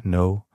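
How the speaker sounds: "No" with no K sound at the start; "No" as in "know", the K left silent. Shown as a demonstration. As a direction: say "No" starting straight on the N. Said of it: "wird das K nicht gesprochen".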